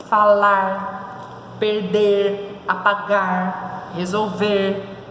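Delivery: "falar, perder, apagar, resolver" one by one, each final syllable held long; stressed last syllable. Shown as a demonstration. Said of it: "a sílaba tônica é na última". ("falar, perder, apagar, resolver" com a última sílaba forte e alongada)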